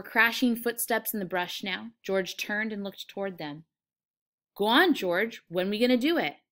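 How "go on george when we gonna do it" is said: louder, impatient question; keen, insistent prompting; eager urging. Acted. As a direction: press him for an answer. Lenny impatiently urging George.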